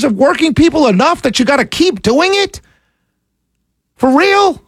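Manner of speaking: high, indignant questioning; real incredulous anger; outraged challenge. Real, not acted. Angry challenge to politicians.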